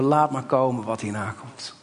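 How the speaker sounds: calm confident resolve; calm trust. Shown as a demonstration. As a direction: say it quietly with faith. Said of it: "zeggen we".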